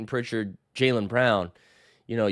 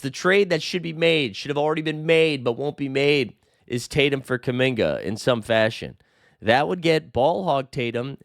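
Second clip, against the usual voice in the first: newscaster read. Shown as a demonstration. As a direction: read it like a TV anchor. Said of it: "I feel like Ron Burgundy just reading this".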